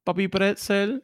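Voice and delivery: high, slow, drawn-out Spanglish catchphrase; hammed-up high-pitched Spanglish nonsense; nonsense broken English. Shown as a demonstration. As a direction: sing out silly broken English with a heavy Spanish accent. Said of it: "weird, stupid words that make no sense".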